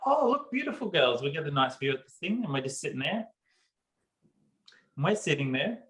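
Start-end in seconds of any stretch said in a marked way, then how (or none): 0.1-2.4 put-on bright sing-song pitched up high to distract the kids; forced cheer masking a stuck ride; mock cheerful reassurance. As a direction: sell the view to frightened children.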